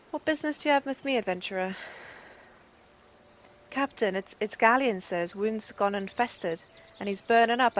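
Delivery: a hint of a proud, gruff rebel leader; mild acted captain, close to own voice; lightly voiced captain Meffred. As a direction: read it like a weary soldier. Reads Meffred and Galleon lines.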